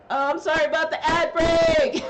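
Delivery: high, loud sudden apology; surprised outburst. Real, not acted. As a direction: blurt it out, startled.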